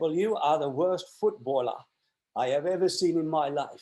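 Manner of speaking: put-on heavy Newcastle Geordie accent. Recounting what a man told him about his football: big Geordie accent. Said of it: "With his big Geordie accent".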